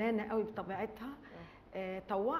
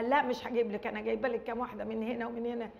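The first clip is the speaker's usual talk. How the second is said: playful firm refusal. Retold or imitated. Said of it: "أقول لها".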